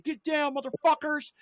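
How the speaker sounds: high, imitated police yell; retold cop command. Cop with guns drawn orders teens down, mock yelling.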